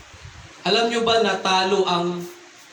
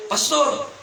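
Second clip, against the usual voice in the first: higher-pitched shouted question, held back in volume; retold yell, pitched up without full force; mock shouting drunk; 5 semitones higher than usual. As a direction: imitate a drunk man calling out a challenge. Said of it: "Pasigaw, sabi niya".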